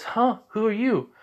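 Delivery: high-pitched quizzical challenge; curious, high acted question; puzzled questioning. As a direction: pipe up, puzzled by a stranger. Yu meets a stranger in story.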